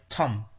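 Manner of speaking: "tum" ending on M, with the B silent. Shown as a demonstration. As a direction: say "tum" with no B sound at the end. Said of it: "the B in top is silent".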